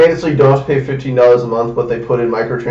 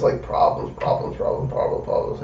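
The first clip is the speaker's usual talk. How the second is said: whispered list; 11 dB quieter than usual. Real, not acted.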